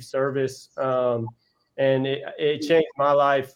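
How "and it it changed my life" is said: emotional. Real, not acted. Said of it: "I'll get emotional".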